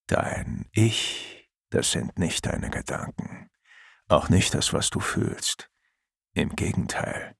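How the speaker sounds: soft unvoiced whisper. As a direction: breathe the words like a memory. Father's remembered wisdom, whispered.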